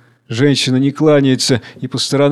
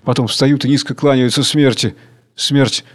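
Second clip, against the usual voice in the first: ordinary delivery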